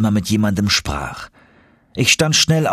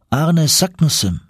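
slow, higher questioning repeat; mild astonishment, pitched up; surprised echo; 8 semitones higher than usual. Acted. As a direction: repeat the name with raised, drawn-out wonder. Professor echoes the name in question.

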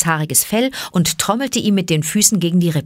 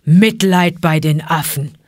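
snarl; 4 dB louder than usual. Acted. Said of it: "schnarrte Balu".

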